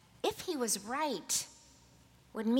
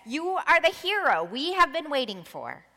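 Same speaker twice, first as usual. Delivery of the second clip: eager outburst; 4 semitones higher, 7 dB louder than usual. Acted. Peter eagerly blurts the answer.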